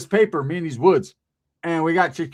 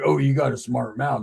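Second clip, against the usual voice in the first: big man's voice; 4 semitones lower than usual. Retold or imitated. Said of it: "that's how he talked".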